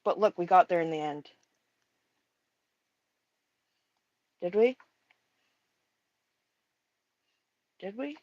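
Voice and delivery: talking around a paintbrush in teeth; paintbrush in mouth. Real, not acted. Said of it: "I got a paintbrush in my mouth".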